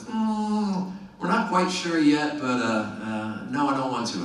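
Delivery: put-on high, hedging Virginia accent; hesitant mock Virginia voice; Vince's terrible Virginia accent. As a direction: stall in a badly faked Virginia accent. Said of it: "This is a terrible Virginia accent".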